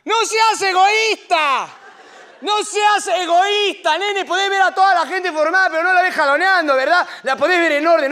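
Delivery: grito agudo y lento con acento argentino; regaña a la señora furioso; grito enojado. Acted. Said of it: "se pone a gritarle a la señora". (el Papa le grita a la señora, furioso)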